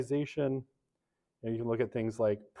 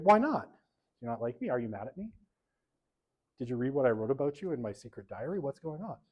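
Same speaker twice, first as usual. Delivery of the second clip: mock needy friend. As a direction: play a jokingly clingy friend. Acting a hurt friend.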